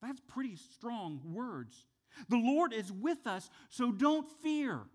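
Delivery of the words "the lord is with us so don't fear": bold Joshua and Caleb. Retold or imitated. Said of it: "what Joshua and Caleb had said".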